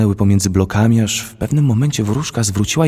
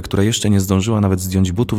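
ordinary delivery

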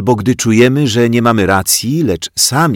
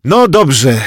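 choked out; 7 semitones higher, 7 dB louder than usual. A narrator's reading. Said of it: "wykrztusiła wreszcie pani Miłka".

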